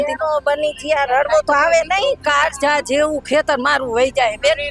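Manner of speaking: grieving the washed-away field through tears; crying. Real, not acted. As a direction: still tearful, voice breaking. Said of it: "તમે આટલું રડો છો કેમ?".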